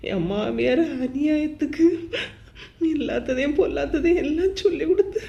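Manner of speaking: weep while blaming the mother-in-law; crying. Acted. Wife accusing her mother-in-law to her sister, sobbing.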